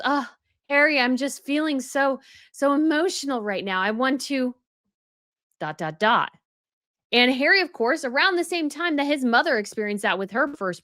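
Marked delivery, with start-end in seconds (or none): 0.0-6.3 a mock-tearful plea pitched up, trailing off; milk the emotion like a fake damsel; mocking Meghan. Meghan to Harry while pregnant, mocking syrupy emotional plea. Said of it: "went to Harry and goes".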